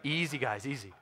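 softly voiced, careful caution; gentle. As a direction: ease them in gently. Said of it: "real gentle".

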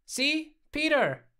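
high, loud cry of vindication; excited, punchy and high; triumphant exclamation. A narrator's reading. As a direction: exclaim it as proof, pitch leaping up. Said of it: "Alex exclaimed".

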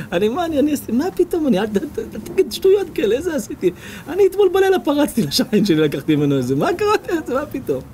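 high, protesting rush of denials; a modest man protesting he did nothing, flustered. Acted. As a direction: wave off the praise, flustered and high. Humble man denies good deed.

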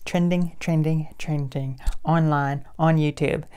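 loud, gushing fake-excited intro; hammed-up bubbly influencer voice; mock hyper vlogger. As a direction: parody the over-the-top trending YouTuber. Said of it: "who's talking like this".

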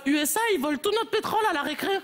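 lightly voiced whiny schoolkid; tattling pupil. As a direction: tell on him like a kid. Pupil telling on classmate.

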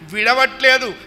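rising panicked plea; pleading boy. Acted. Boy pleads with mother while the crocodile drags him, panicked. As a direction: beg for help as you're pulled under.

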